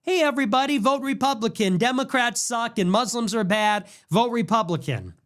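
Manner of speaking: mock upbeat party-line announcer; mock GOP pundit. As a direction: parody a canned talking-points host. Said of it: "do the G O P talking points".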